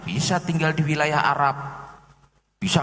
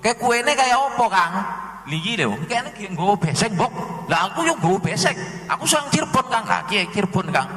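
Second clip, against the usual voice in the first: villager banter; 4 semitones higher than usual. Retold or imitated. Javanese dialogue between two villagers.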